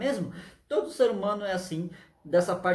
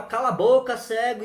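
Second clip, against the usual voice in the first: louder, scolding snap; crowd hushing; 3 semitones higher, 5 dB louder than usual. Acted. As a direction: shut him up sharply. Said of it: "todo mundo fala". (a multidão mandando calar)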